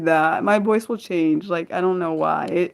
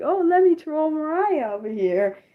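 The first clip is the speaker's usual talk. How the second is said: lightly voiced troll in a higher pitch; higher-pitched mock troll voice; 8 semitones higher than usual. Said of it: "and like".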